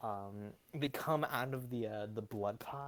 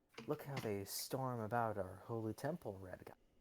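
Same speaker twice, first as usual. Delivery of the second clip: muttered under breath, much quieter; 4 dB quieter than usual. A game master voices a woman as the players approach, muttering under her breath. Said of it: "You hear mumbling under her breath".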